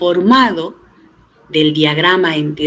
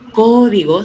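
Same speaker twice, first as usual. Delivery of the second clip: código with the first syllable CÓ lifted and louder; stress on CÓ; 4 semitones higher, 3 dB louder than usual. Shown as a demonstration. Teacher points out the written accent, stressing CÓ in código. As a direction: lean on the opening CÓ of código, then drop. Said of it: "tiene acento en la O".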